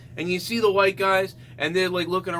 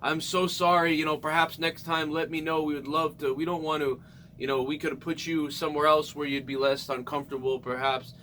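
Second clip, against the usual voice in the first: soft polite waiter; 4 semitones lower, 6 dB quieter than usual. Retold or imitated. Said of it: "he was like".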